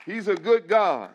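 "good" rung out loud and high; loud praise. Acted. Pastor to church, praising loudly. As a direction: proclaim it to the room.

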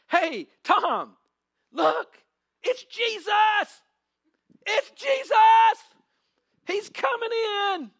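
high, loud, slow excited shouting; man in the crowd shouting to Tom, thrilled; excited crowd member. Acted. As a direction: yell to your friend that Jesus is here. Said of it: "Let me live the moment".

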